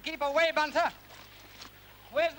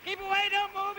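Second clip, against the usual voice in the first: higher, alarmed warning call; urgent warning; 5 semitones higher than usual. Acted. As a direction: warn a companion off in alarm. Sinking lord warns companion off.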